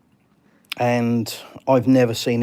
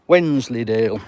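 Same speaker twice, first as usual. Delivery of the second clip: put-on rough Yorkshire accent, louder; Wallace; 5 dB louder than usual. Streamer recalling a cartoon catchphrase, attempted Yorkshire accent. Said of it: "I can't really do the Yorkshire accent".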